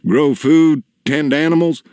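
lifted, tentative prompt; father's prompting question. A narrator's reading. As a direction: finish his thought helpfully.

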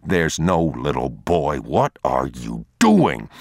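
slow, low, tense scolding; a hint of a worried father's rebuke; stern father. Father scolding the boy who ran off, slow and stern.

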